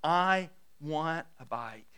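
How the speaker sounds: put-on slow, word-by-word toddler demand; lightly voiced insistent little kid; demanding three-year-old. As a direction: imitate a small child stubbornly insisting. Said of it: "And the three-year-old".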